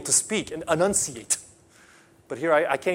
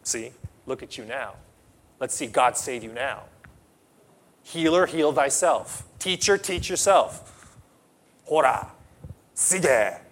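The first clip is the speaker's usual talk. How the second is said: mocking sneer; 3 semitones lower than usual. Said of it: "they're going".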